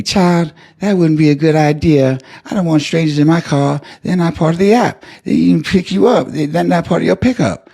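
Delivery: a church lady gently laying down the rules; prim old lady driver. Retold or imitated. Driver refusing to pick up strangers, high sweet firm voice. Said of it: "And she say to me".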